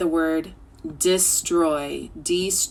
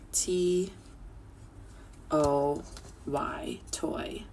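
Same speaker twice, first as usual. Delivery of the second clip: whisper; 2 semitones lower, 9 dB quieter, much slower than usual. Shown as a demonstration. Teacher whispers spelling.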